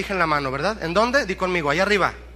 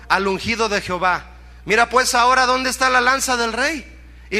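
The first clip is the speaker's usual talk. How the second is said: mildly indignant proclamation, voice raised; acted angry rebuke; 4 semitones higher, 3 dB louder than usual. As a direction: rebuke the guard as you read it out. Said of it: "David se enojó". (regaño bíblico con enojo moderado)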